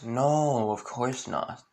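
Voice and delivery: understated sarcastic denial. Acted. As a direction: deny it with mock innocence, trailing off softly. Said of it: "With, like, a lot of sarcasm".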